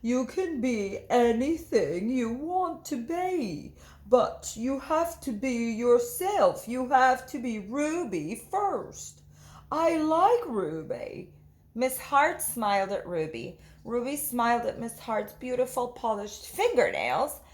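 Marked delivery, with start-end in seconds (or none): 0.0-11.3 gentle teacher. Acted. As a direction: comfort her kindly. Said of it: "she said gently".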